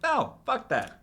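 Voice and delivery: high, loud mock yell of refusal; mock outraged refusal. Fan scoffing at a studio idea with a high mock yell. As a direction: toss it off like a fan's outburst, hammed up. Retold own reaction, shouted.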